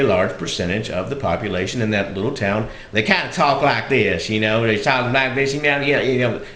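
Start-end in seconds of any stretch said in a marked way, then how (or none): 2.9-6.4 thick country Southern drawl; pronounced Southern drawl. Shown as a demonstration. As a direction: lean into a Southern small-town drawl. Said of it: "a more pronounced drawl".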